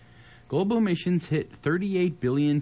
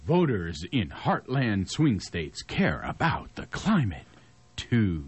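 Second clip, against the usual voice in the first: slower, each word weighed; slow emphatic reread; slower than usual. Shown as a demonstration. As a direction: read it again slowly in disbelief. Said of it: "this is news to me".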